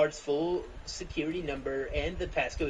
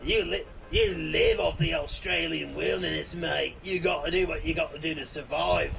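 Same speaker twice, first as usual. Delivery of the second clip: Crikey exclaimed, louder mock Aussie; hammed-up Aussie bushman; mock Australian accent; 5 dB louder than usual. Friend does an outback bloke in mock Australian accent. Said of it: "That's just Australian way".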